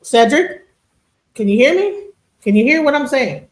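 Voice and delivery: see if the silent guest can hear you; calling to check. Real, not acted. Checking whether silent guest hears.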